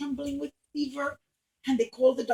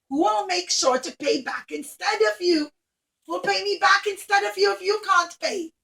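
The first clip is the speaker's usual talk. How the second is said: grand rich lady; 2 semitones higher, 6 dB louder than usual. Acted. Rich Roman lady welcoming Rabbi Akiva, loud and gracious. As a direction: greet him like a generous grand lady.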